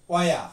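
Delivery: ওয়া with no final r; ওয়া, the r silent; non-rhotic wear. Shown as a demonstration. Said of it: "উচ্চারণ করে".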